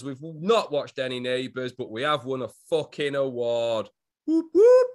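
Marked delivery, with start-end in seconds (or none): 4.3-4.9 high, loud celebratory cheer; excited whoop. Real, not acted. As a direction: cheer it out, much higher. Celebrating the award win.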